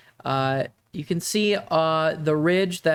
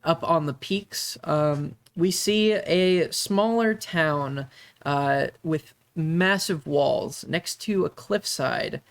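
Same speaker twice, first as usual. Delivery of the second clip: story narration. Acted. GM sets the scene.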